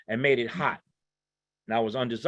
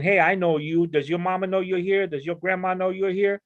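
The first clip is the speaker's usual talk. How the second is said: higher-pitched imitation of a scolding grandmother; grandmotherly scolding; 4 semitones higher than usual. Grandmothers to young drug buyers at the corner, imitated scolding. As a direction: mildly chide a youngster you know. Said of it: "they would be scolding them".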